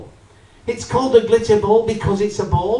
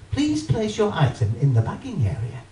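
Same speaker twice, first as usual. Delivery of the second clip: machine voice. Retold or imitated. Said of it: "this voice says".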